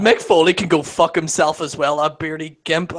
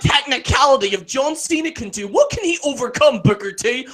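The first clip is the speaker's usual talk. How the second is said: mock sports analyst; 6 semitones higher than usual. Mocking a WWE post show panel, mock pundit voice. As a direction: play a self-serious ESPN pundit.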